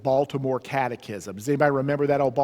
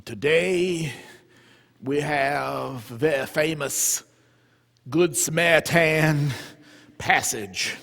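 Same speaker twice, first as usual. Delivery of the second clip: put-on old Memphis monsignor. Old monsignor droning his yearly sermon to the parish, lightly voiced pulpit drone. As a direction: drag the sermon like a bored pastor of fifty years. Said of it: "They hear this".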